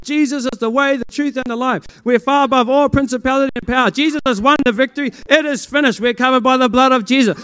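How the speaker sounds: loud, high church proclamation; preachy declaration. Retold or imitated. Mocking church talk he avoided, loud and high. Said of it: "not by saying".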